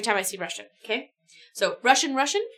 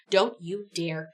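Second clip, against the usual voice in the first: stern order; 4 semitones lower, 3 dB quieter, slower than usual. Acted. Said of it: "Peters orders".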